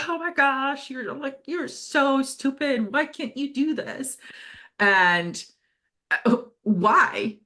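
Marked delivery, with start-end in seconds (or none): 0.1-4.2 a put-on nasty self-critic voice; harsh inner critic. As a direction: scold yourself like a mean inner voice. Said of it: "we're like".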